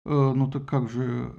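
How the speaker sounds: low, slow hesitant mumble; confused. Acted. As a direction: flounder for words. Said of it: "растерянно ответил Посейдон".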